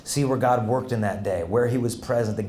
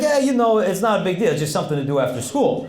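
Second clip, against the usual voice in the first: higher, casual Italian-Californian; Italian-California accent; 4 semitones higher than usual. Retold or imitated. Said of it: "a bit of an Italian accent mixed with a California accent".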